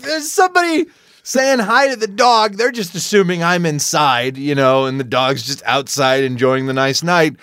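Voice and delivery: ordinary delivery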